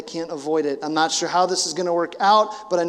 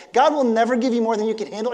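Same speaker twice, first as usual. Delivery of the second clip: mocking; 4 semitones higher, 4 dB louder, faster than usual. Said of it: "one of the most terrible".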